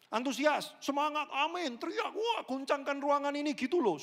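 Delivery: high, loud, excited pastor hyping the crowd; hyped-up rally cry. Retold or imitated. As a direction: pump the room up, shouting. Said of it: "tolong antusias ya semuanya". (berteriak penuh semangat membakar jemaat)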